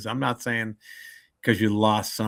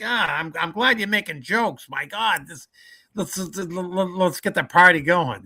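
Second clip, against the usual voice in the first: higher, happy voice from heaven; mock jolly spirit, higher; cheerful departed soul; 7 semitones higher, 3 dB louder than usual. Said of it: "looking down from heaven saying".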